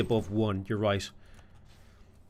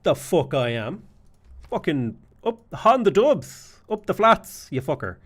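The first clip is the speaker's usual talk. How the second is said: mock-aggressive Dublin accent rising to a louder, higher chant on the dubs; a hammed-up Dublin comeback, shouted in the middle; Dublin Irish retort; 5 semitones higher, 4 dB louder, slower than usual. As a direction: bellow it like a proud Dubliner. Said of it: "And I was like".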